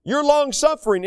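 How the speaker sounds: beseech with mild urgency, pitch lifted; begging. Acted. Moses interceding with the Lord for the people, begging. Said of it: "he begged basically and said".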